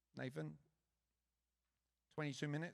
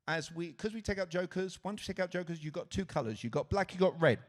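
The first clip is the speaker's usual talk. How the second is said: rapid-fire patter, getting much louder; 2 semitones higher, 6 dB louder than usual. Real, not acted. Host hurrying a volunteer through card choices, rapid-fire. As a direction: push the choices out, building to loud. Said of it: "going real fast".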